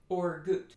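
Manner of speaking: gut with a clipped short u. Shown as a demonstration. Teacher demos the too-short mistake. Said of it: "That's not long enough".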